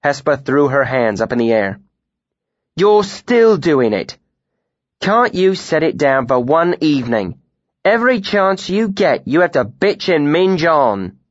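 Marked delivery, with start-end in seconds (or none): 2.7-11.2 exasperated. A narrator's reading. Heated argument with Dedan.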